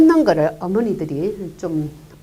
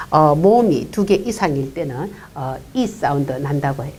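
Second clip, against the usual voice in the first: ordinary delivery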